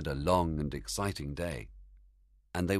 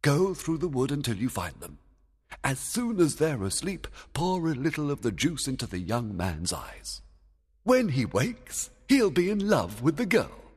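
commanding king; 9 semitones higher than usual. Acted. King giving orders.

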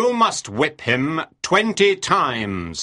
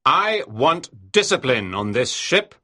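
low, stern, angry demand; angry captain; 6 semitones lower than usual. A narrator's reading. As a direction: lay down the law in a deep voice. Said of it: "Captain Bligh was still angry".

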